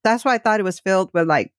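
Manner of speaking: talking with mouth full. Real, not acted. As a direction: speak around a mouthful of food. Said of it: "I'm talking with my mouth full".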